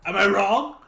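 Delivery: laughing character quote; laughing line. Acted. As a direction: ask it through a laugh. Animal companion voiced, laughing.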